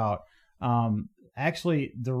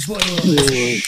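loud toast call; 8 dB louder than usual. Real, not acted. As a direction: shout the beer name out loud. Toast call after countdown.

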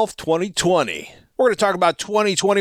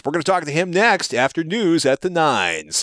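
radio voice. Acted. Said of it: "I'm gonna stop now".

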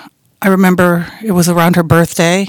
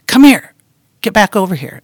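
calling out; 4 semitones higher, 4 dB louder than usual. Retold or imitated. Calling daughter back for hug.

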